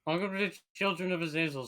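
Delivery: talking through a mouthful; munching while speaking; chewing while talking. Real, not acted. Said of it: "Sorry, I'm munching on something real quick".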